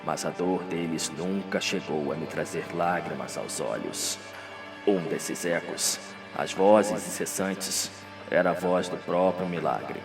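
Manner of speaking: low, hushed, slow deathbed voice; dying Radamés. Acted. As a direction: speak softly and deep, as from a deathbed.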